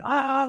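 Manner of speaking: high-pitched mock charging yell; mock battle scream. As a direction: imitate your own screaming bayonet charge.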